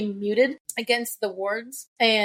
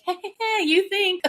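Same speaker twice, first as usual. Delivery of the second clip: mocking harp voice; 9 semitones higher than usual. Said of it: "And she's like".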